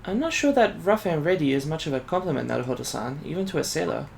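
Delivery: put-on soft, lightly Asian-accented young assistant; restrained Asian accent, softly spoken; light Asian immigrant accent. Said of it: "like, an Asian immigrant".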